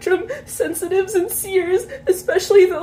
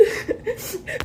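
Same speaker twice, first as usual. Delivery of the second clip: quiet, high sob; a small choked sob while crying; real sob; 8 semitones higher, 9 dB quieter than usual. Real, not acted. Breaking down mid-video to viewers, sobbing. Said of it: "I can't stop crying".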